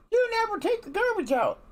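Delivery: high-pitched hammed-up nag voice; nagging wife. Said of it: "you're not seeing nagging".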